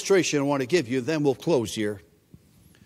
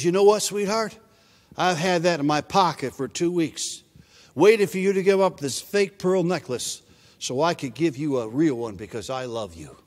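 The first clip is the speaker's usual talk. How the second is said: softer, lower, gentle father; tender father; 3 semitones lower, 3 dB quieter than usual. Retold or imitated. Father quietly explaining to his daughter why he waited, soft and tender. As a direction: tell her gently, with love.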